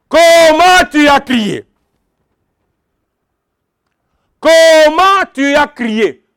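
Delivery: slow, weighty question, Comment leaned on; each word laid down slowly; emphatic question. Acted. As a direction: drive the question home to the congregation. Preacher repeats key question emphatically.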